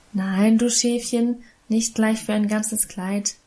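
a hint of amusement in the voice; amused. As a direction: tease the little sister fondly. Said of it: "antwortete Emma vergnügt".

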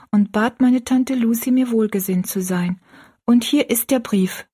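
put-on high girlish storytelling voice; young Rosalie, confiding. Rosalie tells her friend about her aunt, high and confiding.

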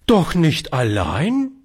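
high, slow horrified cry; a mild shocked gasp of a question. Acted. Old lady hears the child went out alone, mild horror. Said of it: "rief das alte Fräulein entsetzt".

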